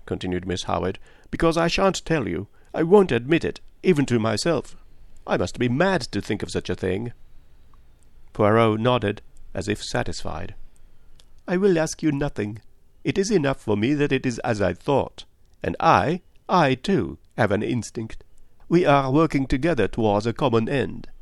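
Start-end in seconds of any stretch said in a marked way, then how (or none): 1.3-7.1 higher, stubborn woman; Miss Howard. Acted. Woman refuses to share her suspicion, stubbornly. 11.5-21.1 higher-pitched, earnest detective; Poirot. Acted. Detective asks a woman for a truthful answer, earnest.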